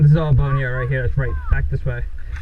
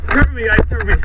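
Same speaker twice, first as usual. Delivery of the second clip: higher, urgent call for cover; cover me shout; 6 semitones higher, faster than usual. Real, not acted. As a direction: yell for teammates to cover. Asking cover during attack.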